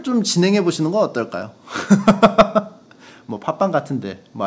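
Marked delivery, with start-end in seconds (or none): 1.7-2.7 quick high burst of laughter; short laugh. Real, not acted. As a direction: break into a brief high cackle. Laughs at own suggestion.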